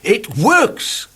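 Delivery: high, amazed exclaim; relieved man amazed counting works; wonderment. Acted. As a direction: marvel out loud. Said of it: "said out loud in wonderment".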